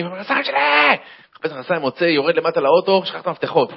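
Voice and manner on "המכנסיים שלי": high-pitched irritated yell; hammed-up household fury; angry shout. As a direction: yell it like an irate husband. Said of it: "בקיצור, הוא עצבני".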